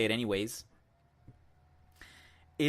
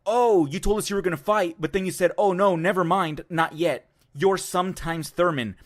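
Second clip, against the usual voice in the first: a louder, jeering mimic of the heckling fan; mocking taunt; 4 semitones higher, 5 dB louder than usual. Mimicking the fan taunting Thurman in the lobby, louder and jeering. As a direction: sneer it back like the rude fan did. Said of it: "starts calling him".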